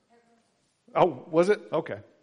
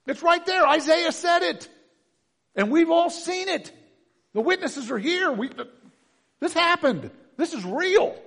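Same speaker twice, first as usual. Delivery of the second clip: much higher, much louder proclaiming; impassioned shout; 9 dB louder than usual. Retold or imitated. Paul shouting the proof at those who oppose him, impassioned. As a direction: cry it out like undeniable proof. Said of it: "He goes".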